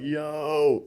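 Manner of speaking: high, loud shocked disbelief. Retold or imitated. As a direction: shout out the shock at the cold. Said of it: "and I'm like".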